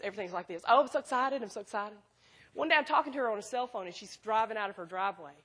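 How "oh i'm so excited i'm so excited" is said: mildly voiced gushing friend; a light take on someone bubbling over; excitable friend impression. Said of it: "And she talks like this".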